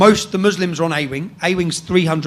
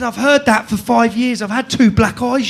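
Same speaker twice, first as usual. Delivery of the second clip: raised, defiant mock yell; retold screaming; 4 semitones higher, 4 dB louder than usual. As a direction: re-enact yelling back, only half shouted. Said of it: "I'm screaming it out the window".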